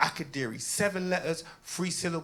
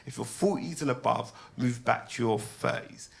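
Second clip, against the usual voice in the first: grave game-show host laying out the rules; mock serious host; 6 semitones lower than usual. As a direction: lower the voice like a solemn quiz host. Mock serious questioning setup.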